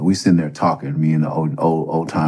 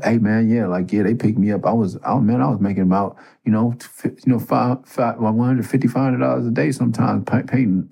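bragging inmate; 6 semitones higher than usual. Retold or imitated. Hustler inmate voiced bragging.

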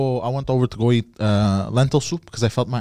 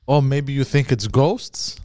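slow, drawn-out mocking question; 3 semitones higher, slower than usual. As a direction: imitate someone making fun of you, taking it slowly. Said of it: "Like, making fun of me".

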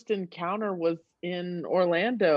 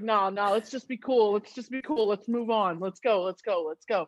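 forced cool. Retold or imitated. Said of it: "So I'm just like".

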